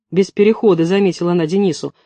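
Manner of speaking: plain reading voice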